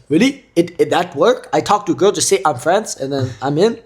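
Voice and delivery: high eager broken English; excited foreign guy. Retold or imitated. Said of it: "And he was like".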